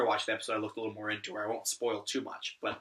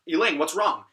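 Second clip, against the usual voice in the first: louder, higher mock-worried call; retold alarm; 5 semitones higher, 8 dB louder than usual. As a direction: call out in acted concern. Alarmed question as she faints.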